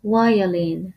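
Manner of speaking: "وایلین" opened on a relaxed v; loose V. Shown as a demonstration. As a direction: keep the first sound of "وایلین" a loose v. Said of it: "خیلی باید شل بگید". («وایلین» با v شل)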